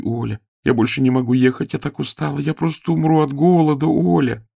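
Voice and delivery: put-on high, whining child's voice begging; tired hungry page begs her friend; pleading child. A narrator's reading.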